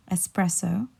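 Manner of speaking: espresso said ess-PRESS-o, no X; espresso with a clear S, rising at the end; correct espresso. Shown as a demonstration. Teacher repeats the second word, espresso without an X. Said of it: "pronounce it without the X".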